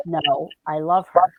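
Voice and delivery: slow, low-key male ghost voice; slowly, like an unseen man answering; ghostly male voice. Retold or imitated. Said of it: "you heard a male voice say".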